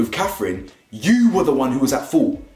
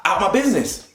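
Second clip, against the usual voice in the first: mock clapback; 5 semitones higher, slower than usual. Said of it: "I'd be like".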